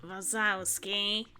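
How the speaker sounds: lightly voiced slow, drawn-out Roz; a hint of Roz's slow drone; Ross voice. Lightly voiced Roz droning Mike's name slowly. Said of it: "let me get my best Ross voice going again".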